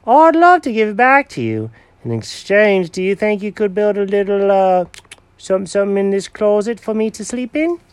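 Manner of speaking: high, eager cat character voice; proud cat showing Norman the bed, high and eager; Jenkins the cat voice. Acted. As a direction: play the cat showing off his old find.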